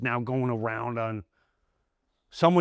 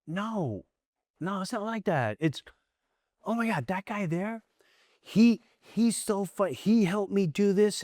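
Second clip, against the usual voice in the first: much higher, pleading and excited; eager defense; 9 semitones higher than usual. Retold or imitated. Defending his co-star to the football star, high and eager. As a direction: rush to defend the co-star, pitched way up. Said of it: "I went".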